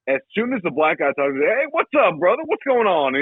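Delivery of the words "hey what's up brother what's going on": higher, lively mock greeting; put-on slang greeting. White guy greets the black guy, mock slang voice. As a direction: imitate a man suddenly talking street. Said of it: "this guy who talks white as fuck".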